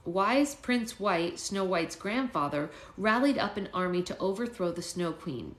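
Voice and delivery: slow storybook reading; story narration. A narrator's reading. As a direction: read it slowly to an audience.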